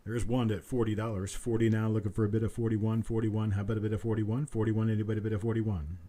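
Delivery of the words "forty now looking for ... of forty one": quick steady auctioneer patter; auction bid calling. Acted. Auctioneer calls for the next bid in brisk patter. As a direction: keep the bids rolling like an auctioneer.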